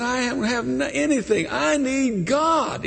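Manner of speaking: imitating a drunk. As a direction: lightly play the desperate drunk begging for God. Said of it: "He was drunk".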